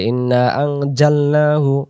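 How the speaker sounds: slow recitation with a hard j in আনজালনাহু; mispronounced jim sound. Shown as a demonstration. Teacher showing learners the mistake, hard j sound. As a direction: draw out আনজালনাহু with j instead of z. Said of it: "তখন জিম অক্ষর আসবে".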